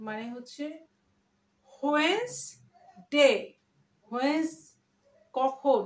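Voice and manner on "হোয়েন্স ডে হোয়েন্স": "WHENS... day" with a long pause; syllable breakdown. Shown as a demonstration. Teacher explaining when plus s, broken-down pronunciation. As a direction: split হোয়েন্স from ডে, like "when" plus s. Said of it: "উচ্চারণ করছি".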